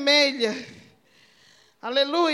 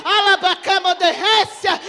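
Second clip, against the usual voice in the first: tongues burst; 2 semitones higher than usual. Real, not acted. Tongues mid-sermon.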